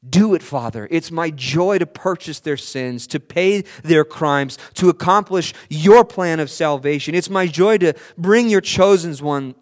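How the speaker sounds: Son's eager plea. Acted. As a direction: beg eagerly to be sent. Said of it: "it's as if the son says".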